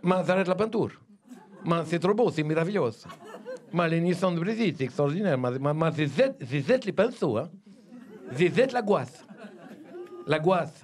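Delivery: light mock Italian accent, lots of "Ma". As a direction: play Michelangelo in a hammy Italian accent. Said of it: "l'accent italien".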